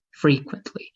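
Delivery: "frequently" stressed on FRE; first-syllable stress. Shown as a demonstration. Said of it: "stress the first syllable".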